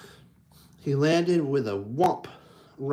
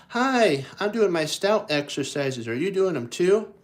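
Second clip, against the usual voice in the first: high, louder cheerful bear voice; high Pooh voice; 5 semitones higher, 4 dB louder than usual. Acted. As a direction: chirp it up like a little bear greeting himself. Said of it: "looks in the mirror and goes".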